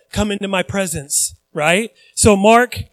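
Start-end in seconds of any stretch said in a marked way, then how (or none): 0.1-1.3 softer, grave call; hushed formal invitation; solemn invitation. Pretend. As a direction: say it quietly like a solemn summons. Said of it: "but he will say".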